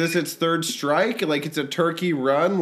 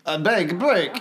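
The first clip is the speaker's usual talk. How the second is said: mock French. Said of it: "French bark".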